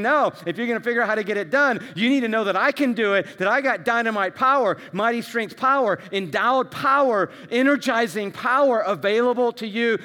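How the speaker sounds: booming divine promise, preached; voice of God. Retold or imitated. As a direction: declare it as God would, rising in power. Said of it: "And God is saying".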